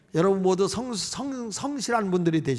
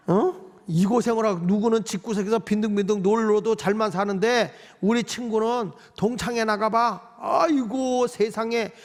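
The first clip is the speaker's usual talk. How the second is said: wife's grumbling. Acted. Wife moaning about her husband versus her friend's, mock grumbling. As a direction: grumble on in a hammed-up lament. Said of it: "막 이러면서 막 불평해".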